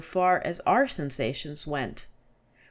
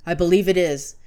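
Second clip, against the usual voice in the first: louder, urgent realisation; alarmed cry; 7 dB louder than usual. A narrator's reading. Gibran agreeing the drug is fading, louder and alarmed. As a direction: push the words out in alarm. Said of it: "he cried".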